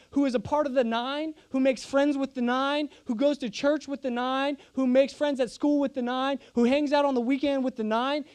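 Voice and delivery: building rhythmic sermon list, each "nine" landing; preaching cadence. Acted. Pastor warning Christians about comfort with the nine, rising preaching. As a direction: drive the repetition home to the congregation.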